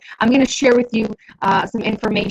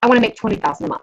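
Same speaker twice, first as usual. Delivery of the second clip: quick, firm, falling at the end; confident statement; much faster than usual. Shown as a demonstration. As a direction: state the goal with certainty. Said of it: "Do you see the difference?".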